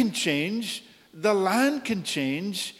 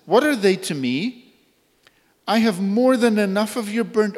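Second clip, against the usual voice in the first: a louder preached rebuke in God's voice; God rebuking, louder; 3 semitones higher, 4 dB louder than usual. Retold or imitated. Preacher voicing God rejecting the people's sacrifices, loud rebuke. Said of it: "really quite graphic what he says".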